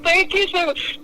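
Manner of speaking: very high, slow mock sobbing; imitating crying. Rescued friend crying with relief in the car, very high mock sob. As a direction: wail it out like blubbering relief. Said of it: "He's like, cries".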